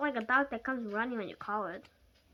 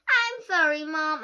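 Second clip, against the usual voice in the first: higher, louder crying apology; sobbing; 4 semitones higher, 9 dB louder, slower than usual. Acted. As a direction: blurt it out through sobs. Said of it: "I sobbed".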